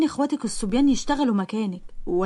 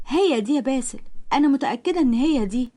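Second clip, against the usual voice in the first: excited recognition; 4 semitones higher than usual. Acted. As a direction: point her out, thrilled to be right. Durra spots the girl excitedly.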